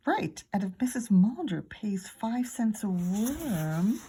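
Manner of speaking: slow, conspiratorial whisper; boy whispering a money plan to his friend. Acted. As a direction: hush it like a secret scheme. Hatching a plan secretly.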